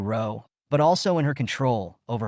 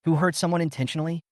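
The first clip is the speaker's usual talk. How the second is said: cold challenge; 5 semitones higher, faster than usual. Acted.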